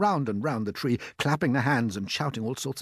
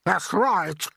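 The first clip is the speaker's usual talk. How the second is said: a much higher, louder put-on aunt's voice, excited; Aunt Sponge; 7 semitones higher, 7 dB louder than usual. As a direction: play the greedy aunt gaping at the peach. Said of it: "Aunt Sponge declared".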